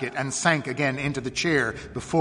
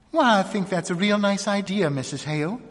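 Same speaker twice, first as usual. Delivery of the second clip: higher-pitched, pleased assent; glad agreement; 7 semitones higher than usual. A narrator's reading. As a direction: agree gladly, relieved at a simple kindness. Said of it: "as if she too were glad".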